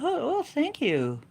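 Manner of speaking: high, slow, teary thank you; mock flattered nanny. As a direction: gush like a touched old lady.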